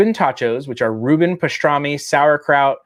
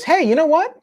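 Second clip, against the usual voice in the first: wife; 9 semitones higher, faster than usual. Retold or imitated. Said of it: "the wife goes".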